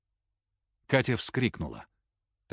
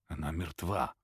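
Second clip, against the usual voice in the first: soft and low, barely voiced; quiet; 4 semitones lower, 8 dB quieter than usual. A narrator's reading. Андрей quietly tells the others she is dead, softly. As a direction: say it softly, stunned. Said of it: "тихо сказал Андрей".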